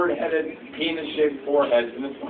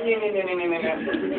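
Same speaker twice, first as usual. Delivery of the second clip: imitated shrinking noise; 5 dB quieter than usual.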